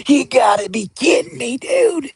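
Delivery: real shocked delight at the donation; stunned excited yelp; disbelief. Real, not acted. Reacting to a donation.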